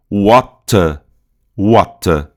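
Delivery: "Water" with long open O, crisp T, no R; prolonged British O. Shown as a demonstration. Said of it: "tem o O aqui prolongado".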